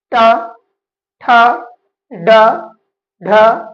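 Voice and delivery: ट, ठ, ड, ढ each spaced out, tongue at the roof; consonant demo. Shown as a demonstration. Teacher demonstrating retroflex ट-वर्ग sounds to students, spaced. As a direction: tick off ट ठ ड ढ one by one. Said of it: "बोल के आप देखिए ट को".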